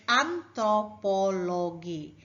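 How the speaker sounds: "antropologi" spaced out as an-tro-po-lo-gi; syllable by syllable. Shown as a demonstration. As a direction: say each syllable of "antropologi" separately. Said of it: "Five syllables in the word".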